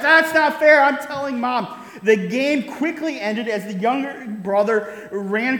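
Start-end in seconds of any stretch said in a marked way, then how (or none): 0.0-1.8 put-on whiny kid's cry. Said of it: "the cry rang out".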